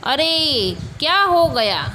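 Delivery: teacher acting out mild alarm; demonstrated surprise. Shown as a demonstration. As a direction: model an exclamation of surprise. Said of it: "आश्चर्य".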